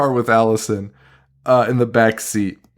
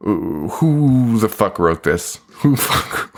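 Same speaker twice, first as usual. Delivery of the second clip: slow mock disgust; 3 semitones lower, slower than usual. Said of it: "it's just like".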